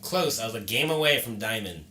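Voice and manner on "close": slow, drawn-out louder complaint; frustrated groan. Real, not acted. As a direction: stretch it out in frustration. Frustrated about ranking.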